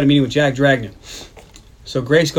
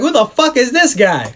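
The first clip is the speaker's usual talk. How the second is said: higher-pitched comic bafflement; mock disbelief; 9 semitones higher, 4 dB louder than usual. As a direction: exclaim it like you can't believe this guy. Acted baffled reaction in retold scene.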